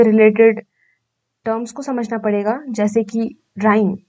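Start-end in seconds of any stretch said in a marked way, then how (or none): 3.6-4.0 slow, drawn-out राइम; teacher's slow example word; slow demo word. Shown as a demonstration. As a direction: say राइम slowly and clearly, like a teacher. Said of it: "राइम means repetition of similar sound".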